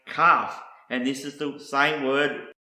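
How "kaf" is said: kaf said KAHF, open ah; Hebrew pronunciation. Shown as a demonstration. Teacher introducing a Hebrew word, kaf pronounced KAHF. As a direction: say "kaf" as KAHF, set apart. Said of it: "is pronounced".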